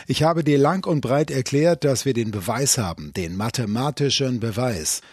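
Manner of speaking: loud, pressing anger; angry insistence. Acted. Angry economist insisting to his caller on the phone. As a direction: hammer home that the proof exists. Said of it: "Gesicht lief rot an vor Zorn".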